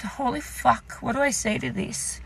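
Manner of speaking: hushed aside to oneself; softly retold private dismay; inner panicked thought. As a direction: think it under your breath. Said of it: "I'm thinking in the back of my head".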